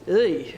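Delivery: short groan of distaste; disgusted groan. Real, not acted. Narrator reacting to torture methods, disgusted groan. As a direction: groan briefly at something unpleasant.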